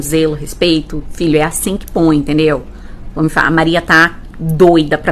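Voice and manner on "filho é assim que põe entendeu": low, gentle parent voice; loving, patient. Acted. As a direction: show a child patiently, voice dropped. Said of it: "É tudo com muito amor, carinho". (com carinho e paciência)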